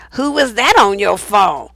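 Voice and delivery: slow, suspicious jealous question; nasty accusing tone. Retold or imitated. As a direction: drag it out like an accusation. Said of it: "with this fucked up tone of voice".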